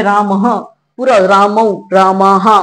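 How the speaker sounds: राम ह with a full ह echo after the vowel; full visarga. Shown as a demonstration. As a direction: say रामाहा sounding the visarga out completely. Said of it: "पूरा उच्चारण". (पूरा विसर्ग उच्चारण)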